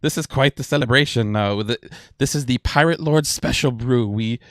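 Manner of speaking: high, loud, giddy first mate. Acted. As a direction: gush excitedly over the celebration. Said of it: "kind of a little bit giddy".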